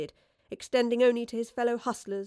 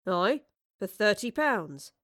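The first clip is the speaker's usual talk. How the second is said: sardonic; slower than usual. Acted. Woodliffe sardonic.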